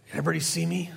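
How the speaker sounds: whispered aside, fishing for attention; sly whispered mock aside. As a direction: whisper it like a showy pray-er checking the crowd. Mocking showy public prayer.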